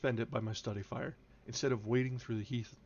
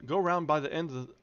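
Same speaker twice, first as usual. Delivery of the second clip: put-on gruff old Yorkshire farmhand, raised voice; thick Yorkshire dialect, barked out; broad Yorkshire accent; 3 semitones higher, 4 dB louder than usual. Joseph directing the visitor round, in broad Yorkshire. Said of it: "Good lordy, that's an accent".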